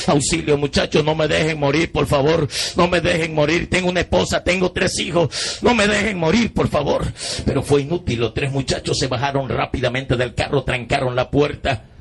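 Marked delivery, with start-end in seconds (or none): 0.1-7.1 higher, pleading as in a reenactment; acted desperate appeal without shouting; retold plea for help. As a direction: beg them not to leave, voice rising. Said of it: "pidiéndole auxilio".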